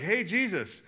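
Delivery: high, lively eager ask; eager disciples. Retold or imitated. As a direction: plead like a kid wanting a trick. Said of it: "they'd be like".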